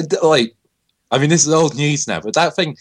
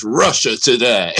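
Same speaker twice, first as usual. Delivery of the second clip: slogan tagline. Retold or imitated. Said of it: "it just goes".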